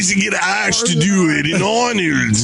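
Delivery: high, stretched mock Austrian accent; exaggerated Austrian action-star parody; Arnold Schwarzenegger. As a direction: ham up a loose Austrian accent.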